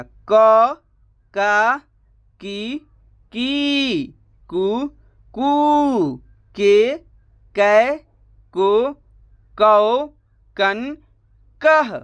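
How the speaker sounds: "क" to "कह" each syllable said alone with pauses between; full barahkhadi read-through. Shown as a demonstration. Teacher reading the whole row aloud for students, syllable by syllable. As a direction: recite the row like a drill, one crisp syllable at a time. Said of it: "देखिए कैसे उच्चारण change होगा".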